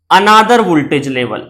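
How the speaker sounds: very slow, word by word; slow dictating pace; slow dictation. Shown as a demonstration. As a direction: spell it out slowly for notes. Teacher dictating definition slowly.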